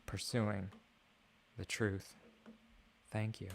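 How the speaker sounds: hushed grand sign-off; mock-sincere closing speech. Streamer thanking viewers in mock-solemn speech.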